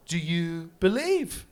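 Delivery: slow, lightly voiced bishop's question; solemn bishop. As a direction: ask it slowly, as if weighing each word. Bishop's grave question retold.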